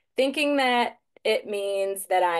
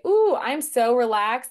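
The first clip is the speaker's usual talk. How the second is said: pleased yawn; 4 semitones higher, 5 dB louder than usual. Retold or imitated. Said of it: "I'd yawn and I'd say".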